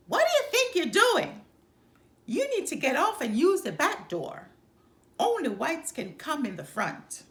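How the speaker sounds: high, loud, furious shout at a passenger; angry driver's yell. Acted. Bus driver shouting at a black woman to get off, high angry yell. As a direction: bark the order to use the back door.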